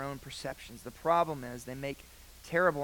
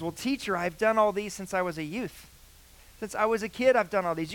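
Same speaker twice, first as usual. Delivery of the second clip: higher, louder, proudly eager; overjoyed; 5 semitones higher, 4 dB louder than usual. Retold or imitated. Rich young man boasting to Jesus, overjoyed. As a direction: boast like you've earned it all. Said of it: "hear it in his voice".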